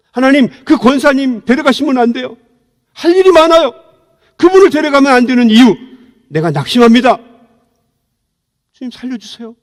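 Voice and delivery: re-enacted pleading prayer; desperate prayer. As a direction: beg God not to take her. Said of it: "제가 욕을 막 했어요".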